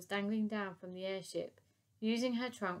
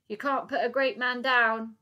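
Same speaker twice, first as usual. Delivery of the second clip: loud boastful call, much louder; 4 semitones higher, 11 dB louder than usual. Acted. Professor calling out to the fleeing ship, loud boast. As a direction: boast it across the ice. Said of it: "he called out".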